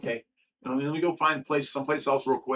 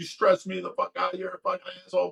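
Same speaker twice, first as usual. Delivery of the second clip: pitched-up, angry, yelled ranting; 5 semitones higher than usual. Retelling how a former tenant yelled and called names: imitating someone yelling insults. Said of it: "starts yelling at me, calling me names".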